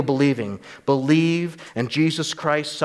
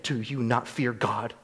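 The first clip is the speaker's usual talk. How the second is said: vehement rebuke; 4 semitones higher than usual. Retold or imitated. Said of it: "I'm sure he didn't say it that violently or vehemently".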